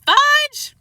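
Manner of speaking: loud high furious yell of the name; angry shout. Acted. Mother yells for her son, angry shout. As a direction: shout the boy's name in fury. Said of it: "Then she shouted".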